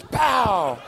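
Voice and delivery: imitated gun blast, one drawn-out pow; mock gunshot. Boy shooting his drunk uncle in the face, mock gunshot. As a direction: punch out a storyteller's gunshot sound.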